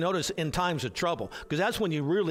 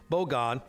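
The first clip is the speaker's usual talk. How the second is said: "bogad" stressed firmly on "bo"; stress on first syllable; 3 semitones lower than usual. Shown as a demonstration. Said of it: "accent on the first syllable".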